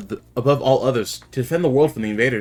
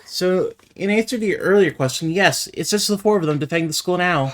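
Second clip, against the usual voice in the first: lightly voiced, higher-pitched devoted character; slightly theatrical, determined hero; resolute loyal comrade; 8 semitones higher than usual. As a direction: vow it with earnest resolve. Voices an earnest game character.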